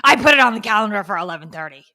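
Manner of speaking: loud, fast, perky put-on voice; mock bright voice. Wife parodies husband's message, loud and perky. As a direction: rattle it off brightly. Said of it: "how it was intended".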